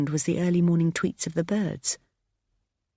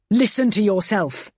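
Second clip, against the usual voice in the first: yelling; 4 semitones higher, 5 dB louder than usual. Acted. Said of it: "he yelled".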